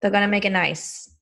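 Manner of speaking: lightly attempted New York accent; New York housewife, accent faintly put on; Dorinda Medley. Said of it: "my attempt at a New York accent".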